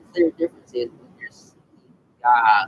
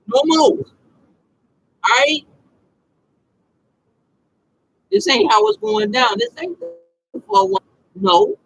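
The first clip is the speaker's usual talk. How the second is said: stern warning; 5 dB louder than usual. Acted. Confronting someone who hit him.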